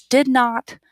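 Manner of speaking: slow, clear "Did not is didn't"; drawn out for learners; slow model. Shown as a demonstration. Teacher slowly shows "didn't" to the class. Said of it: "you already know these".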